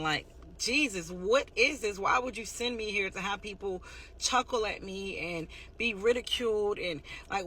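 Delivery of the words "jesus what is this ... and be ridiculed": mild imitation of a distressed plea, pitched up; retold crying out. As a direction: retell an anguished cry to Jesus, without real sobs.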